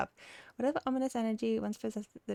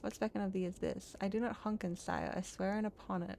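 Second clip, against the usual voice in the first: put-on lightly accented archaic speech; solemn woodland character. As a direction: deliver it as an earnest fairy-tale tree. Voices cutter and tree dialogue.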